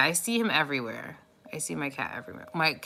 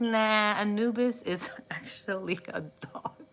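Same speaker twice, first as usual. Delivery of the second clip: whisper; 3 semitones higher than usual. Retold or imitated. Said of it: "I was like".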